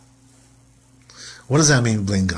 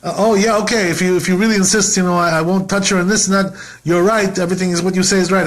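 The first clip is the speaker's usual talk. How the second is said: mock meek agreement; 5 semitones higher than usual. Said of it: "He's not saying".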